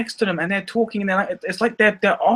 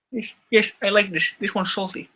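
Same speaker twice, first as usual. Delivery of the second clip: Goldmember; 2 semitones higher than usual. Retold or imitated. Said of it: "when he eats his skin".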